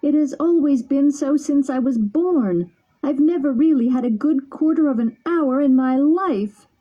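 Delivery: weeping bitterly. Acted. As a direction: plead with his friend through tears. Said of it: "weeping bitterly".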